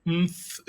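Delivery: "umph" on its own, consonants run together at the end; sounded-out syllable. Shown as a demonstration. Teacher attempting the hard ending, "umph" as a separate syllable. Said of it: "This is the best I can do".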